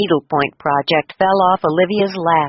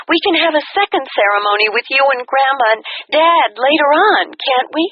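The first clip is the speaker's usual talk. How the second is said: put-on excited young daughter; 5 semitones higher than usual. A narrator's reading. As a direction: rush it out like the breathless bride. Daughter voiced on phone.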